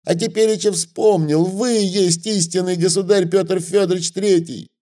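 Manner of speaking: piercing wail. A narrator's reading. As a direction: shriek for his life, high and desperate. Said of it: "пронзительно завопил".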